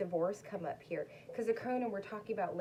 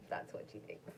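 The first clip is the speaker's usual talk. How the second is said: whispering; 13 semitones lower, 6 dB quieter than usual. Real, not acted. Whispered aside about dog.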